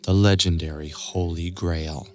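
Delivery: eager, suspenseful storytelling; story narration. A narrator's reading. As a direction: let the wonder build.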